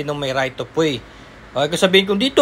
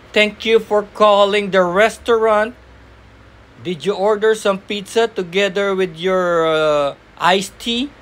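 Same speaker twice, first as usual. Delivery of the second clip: call center agent; 2 semitones higher, slower than usual. Shown as a demonstration. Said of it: "Gagayahin mo".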